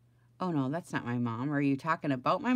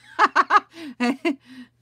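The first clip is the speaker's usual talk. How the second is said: loud high laugh; 9 semitones higher, 11 dB louder than usual. Real, not acted. Laughing at mom's account mix-up on stream. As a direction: burst into a long high laugh.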